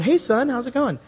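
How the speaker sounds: cheerful mom answering. Retold or imitated. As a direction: greet your son cheerfully, pitched well up like his mom. Mom cheerfully answers son's call.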